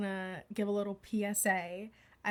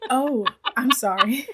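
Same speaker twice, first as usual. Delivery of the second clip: breathy apology; 3 semitones higher, 8 dB louder than usual. Real, not acted. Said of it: "creeping me out".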